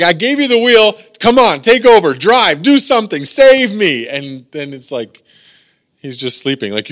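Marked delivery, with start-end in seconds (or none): 0.0-4.1 loud, high, urgent demands; acted-out frantic begging; desperate plea. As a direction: plead loudly for someone to take over. Acting a desperate plea to Jesus.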